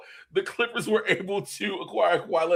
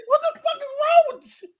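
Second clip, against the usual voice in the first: high-pitched laughing disbelief; 4 dB louder than usual. Real, not acted. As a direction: laugh through the whole line. Laughing at the bit.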